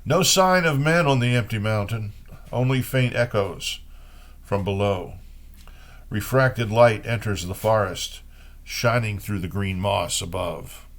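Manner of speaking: measured, unhurried poetry recital; reading old Chinese poems in translation. Acted. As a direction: let each image land, like reading verse aloud. Reads Wang Wei poems.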